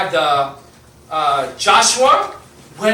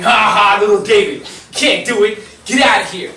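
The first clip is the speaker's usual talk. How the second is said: mocking laughter; 4 dB louder than usual. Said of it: "So they start laughing".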